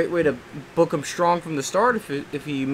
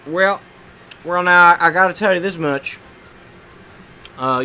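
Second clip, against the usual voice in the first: Jim Ross impression; 3 dB louder than usual. Gamer answers his own question as the commentator, light Jim Ross impression. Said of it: "how is my Jim Ross impression?".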